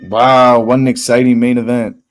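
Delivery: loud mock enthusiasm; sarcastic. Real, not acted. Streamer mocking the boring main event, sarcastic. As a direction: fake excitement about a dull fight.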